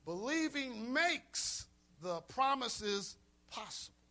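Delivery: slow, weighty repeat; slow down and lean on makes; deliberate slow restatement. Shown as a demonstration. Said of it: "Let me say that again".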